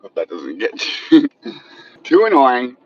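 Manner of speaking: light laugh while apologizing; chuckling through the words. Real, not acted. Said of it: "I'm sorry for the shaking".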